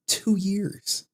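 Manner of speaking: "Two years" hit high and falling; emphatic high repeat. Shown as a demonstration. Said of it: "for two years".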